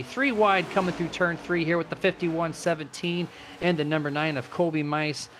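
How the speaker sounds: animated race commentary; live play-by-play. Real, not acted. Race announcer calling a loose car for viewers, live play-by-play. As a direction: call the racing as it unfolds.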